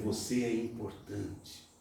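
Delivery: soft, reassuring voice of God; tender. Acted. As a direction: reassure gently. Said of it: "Deus tá dizendo".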